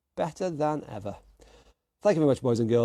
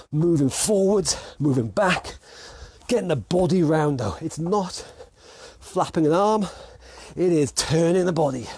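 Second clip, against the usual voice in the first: raised, punchy boxing coach voice; workout coaching call-out; 3 semitones higher than usual. Real, not acted. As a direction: call the moves out in short bursts. Calls out drills during shadow boxing.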